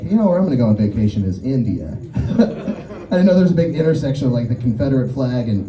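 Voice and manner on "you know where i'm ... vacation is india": low-pitched, lightly voiced redneck. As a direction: imitate a redneck, dropping the pitch. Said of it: "a redneck to be like".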